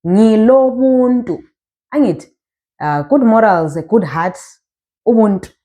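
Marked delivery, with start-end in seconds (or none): 0.1-1.4 "ngilo buntu" slowly drawn out; slow teacher's demo of "ngilo buntu"; model pronunciation. Shown as a demonstration. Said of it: "when you want to say".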